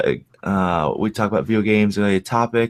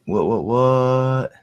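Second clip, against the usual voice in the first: silly clown; 3 semitones higher, much slower than usual. Acted. Silly intro noise bit.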